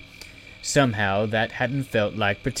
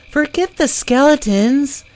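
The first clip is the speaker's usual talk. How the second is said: a much higher, louder urgent cut-in; insistent call; 8 dB louder than usual. Acted. Zelly telling the others to drop the plan, loud and high.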